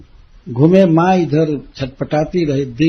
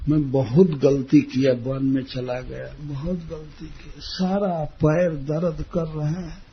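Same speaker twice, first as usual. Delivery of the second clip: soft, put-on lament to mother; mild mock complaint; feigned misery; 6 dB quieter than usual. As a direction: play the sorry child, trailing off quietly. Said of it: "नाटक किए कि".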